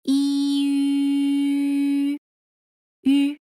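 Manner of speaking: "E" then "ü", lips rounding into a whistled ü; pinyin e and ü. Shown as a demonstration. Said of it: "round your lips and whistle the e vowel out".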